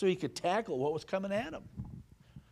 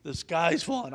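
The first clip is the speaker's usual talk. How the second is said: Chicken Little; 4 semitones higher, 5 dB louder than usual. Retold or imitated. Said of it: "Chicken Little".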